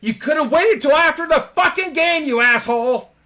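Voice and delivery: top-of-the-lungs high-pitched shout; acted-out outraged scream; furious yell. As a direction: yell it after him at full volume. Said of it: "Steve yells at the top of his lungs".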